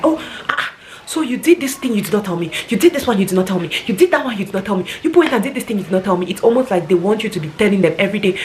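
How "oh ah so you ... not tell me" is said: mimicked in-law. Mocking a clingy in-law who complains to the wife. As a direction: whine each point like an offended in-law.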